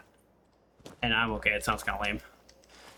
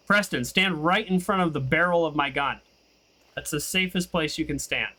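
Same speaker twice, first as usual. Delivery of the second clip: sarcastic; 3 semitones higher than usual. Pretend. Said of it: "That was sarcasm".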